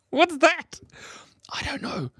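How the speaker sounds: high-pitched, breaking into laughter; laughing confusion. Real, not acted. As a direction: blurt it out while cracking up. Laughing at own misreading.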